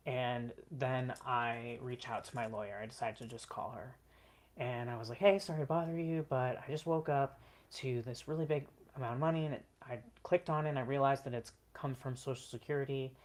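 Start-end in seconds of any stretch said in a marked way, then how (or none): 5.2-13.1 excited. Retold or imitated. Calling lawyer about money.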